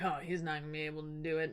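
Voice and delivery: fast, soft mock grumble; lightly voiced sulking suitors; grumbling. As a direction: mutter it under your breath, quickly. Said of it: "the suitors are just over there grumbling".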